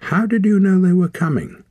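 sharp high startled question. Acted. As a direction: snap it out, suddenly suspicious. Wren suddenly suspicious, startled.

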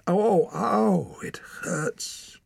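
wail, then fade on the last words; pained moaning. A narrator's reading. Hands thawing, moaning in pain.

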